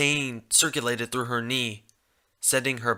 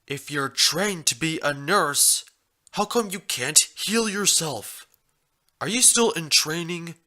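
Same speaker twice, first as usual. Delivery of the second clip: questioning stallion voice; 5 semitones higher than usual. Acted.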